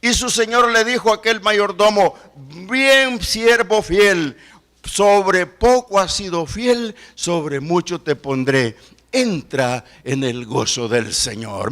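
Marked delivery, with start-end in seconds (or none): 2.7-11.7 slow, weighty reading of the verse; solemn scripture reading. Acted. Preacher reading the Lord's words to the servant, slow and solemn. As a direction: let each word land slowly. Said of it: "Dice la palabra en Mateo".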